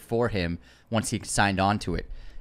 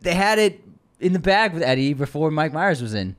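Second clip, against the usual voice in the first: protesting; 6 semitones higher, 4 dB louder than usual. Real, not acted. Protesting in mock argument.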